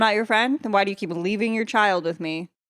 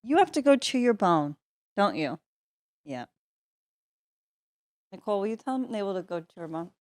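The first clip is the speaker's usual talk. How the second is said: softer coaxing dog voice; talking to the dog; 6 dB quieter than usual. Real, not acted. Host coaxing the dog Mabel to her bed, soft. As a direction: gently shoo the dog to her spot.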